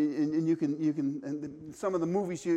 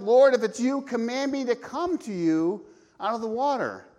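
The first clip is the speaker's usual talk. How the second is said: eager Peter; 4 semitones higher, 5 dB louder than usual. Retold or imitated. Voicing Peter calling to Jesus.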